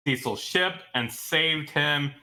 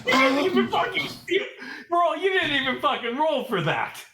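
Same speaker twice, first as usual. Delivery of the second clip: outraged; 10 semitones higher than usual. Real, not acted. Outraged GM complaint.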